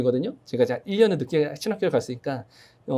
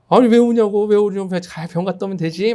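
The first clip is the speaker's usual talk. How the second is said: exasperated retort; 4 semitones higher, 5 dB louder than usual. Retold or imitated. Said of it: "막 그렇게 얘기를 했어요".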